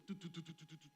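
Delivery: quick run of "do" beats; racing heartbeat imitation. Mother describing her heart after shouting, racing heartbeat imitation. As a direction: imitate a pounding heart in rapid syllables. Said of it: "my, my heart would just go".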